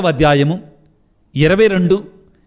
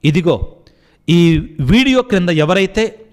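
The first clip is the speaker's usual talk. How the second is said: leading prayer. Acted. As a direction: plead with God on behalf of the sick. Leads congregation in prayer. (భక్తితో ప్రార్థన చేసే స్వరం)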